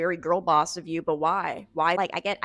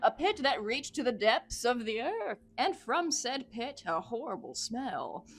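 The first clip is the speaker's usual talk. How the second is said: theatrical horror-journal reading; dramatic narration; 6 semitones higher than usual. Acted. Investigator describes opening the tomb, dramatic narration. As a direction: relish each foul detail.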